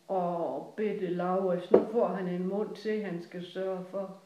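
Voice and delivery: slow, emphatic mock lament; retold lament. Grandmother pitying her son over another mouth, imitated lament. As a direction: lightly imitate a fretting grandmother, drawn out.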